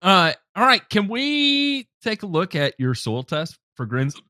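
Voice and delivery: talking through hiccups; hiccuping between words. Real, not acted. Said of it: "I'm sorry, I got the hiccups".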